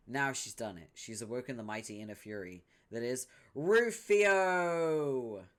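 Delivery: loud epic announcer; dramatic announcer. Acted. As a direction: hype it up mightily.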